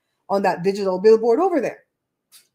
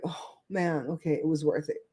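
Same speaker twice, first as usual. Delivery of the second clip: quiet relieved sigh; 5 semitones lower, 9 dB quieter than usual. Retold or imitated.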